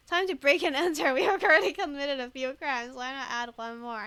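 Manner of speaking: loud gleeful voice with a laugh; loud playful quote. Acted. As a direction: cheerfully announce the crime. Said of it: "Kim even started talking".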